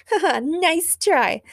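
high, slow mocking laugh and taunt; scoffing. A narrator's reading. Supergirl taunts from the rooftop, scoffing. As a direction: draw it out scornfully. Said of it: "scoffed Supergirl".

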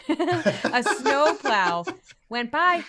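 laughing through the words. Real, not acted. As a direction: laugh while saying it. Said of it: "laughing correction".

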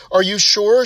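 a touch of tears, pleading to be wrong; tearful question. Acted. Distressed owner asks the vet, mildly tearful. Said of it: "she says with tears flooding from her eyes".

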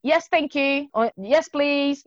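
robotic politeness. Retold or imitated. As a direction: imitate a child trained to say please. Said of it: "ela é robotizada a falar obrigada".

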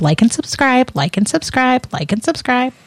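squawky parrot repeating itself. Retold or imitated. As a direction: chirp it like a parrot. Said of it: "there's my excellent parrot impression".

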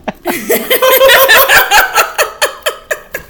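high burst of real laughter; loud laugh. Real, not acted. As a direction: let a big laugh burst out. Laughing at the hard bread.

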